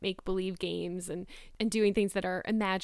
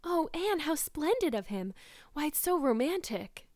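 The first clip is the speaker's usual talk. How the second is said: breathless delight; 7 semitones higher than usual. A narrator's reading. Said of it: "said Jane, finding breath".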